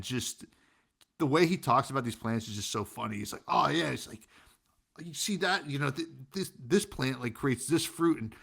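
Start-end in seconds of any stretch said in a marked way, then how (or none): 3.5-8.3 lightly imitated Chicago accent, higher; a hint of a thick Chicago accent. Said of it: "really thick Chicago accent".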